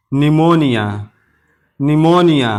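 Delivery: निमोनिया starting straight on the N; silent P. Shown as a demonstration. Teacher models pneumonia for learners, निमोनिया with silent P. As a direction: say निमोनिया with no P sound. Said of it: "अब ये पी silent यानी खामोश है".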